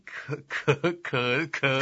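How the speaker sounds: stuck on one syllable, stuttering; nervous stammer. Acted. Subordinate unsure about killing the emperor, stuttering. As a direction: choke on the first word, hesitantly repeating it.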